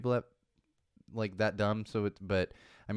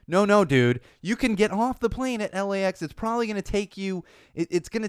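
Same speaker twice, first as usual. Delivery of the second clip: 1 exasperated rant; 7 semitones higher, 5 dB louder than usual. Real, not acted. Ranting at the flyer.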